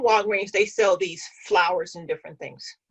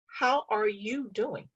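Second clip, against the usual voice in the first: slow and earnest, really asking; mean it this time, slowly; sincere concern; 4 dB quieter, slower than usual. Retold or imitated. Asking the tired cashier again, slow and sincere. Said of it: "No, seriously".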